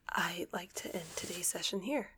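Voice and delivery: normal talking voice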